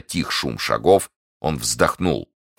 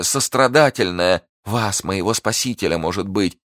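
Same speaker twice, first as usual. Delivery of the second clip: high, urgent begging; desperate Milady, pleading; 7 semitones higher than usual. Acted. Prisoner begging her guard for a knife, high and desperate. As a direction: beg insistently, pitch held high.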